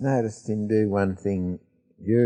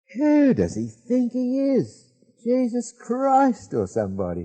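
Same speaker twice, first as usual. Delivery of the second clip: play-acted very loud, shrill, swooping Australian male voice; 4 dB louder than usual. Retelling a remark heard while filing out, in a loud Australian male voice. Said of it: "typically Australian male voice say".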